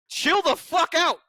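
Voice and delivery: high, slow put-on Kong; hammed-up ape telling Godzilla to calm down; mock Kong voice. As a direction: scold him in a silly high voice.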